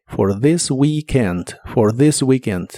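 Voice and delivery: "For this weekend" slowly, voiced th and long ee; "for this weekend" lento con i larga; slow pronunciation demo. Shown as a demonstration. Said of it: "como si fuera una I larga o doble".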